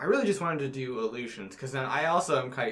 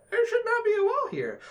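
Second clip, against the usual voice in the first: guard's reaction; 4 dB louder than usual. Retold or imitated. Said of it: "because they go".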